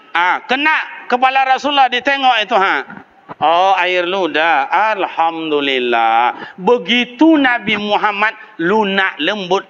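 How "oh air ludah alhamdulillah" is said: calm acceptance. Acted. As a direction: let it go gently, with gratitude. Prophet voiced calmly again.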